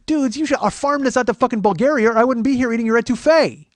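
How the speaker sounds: high, very loud mock outrage; shouted comic tirade. Berating the filmmakers over their lunch, shouting in mock outrage. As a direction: yell it as the rant's big climax.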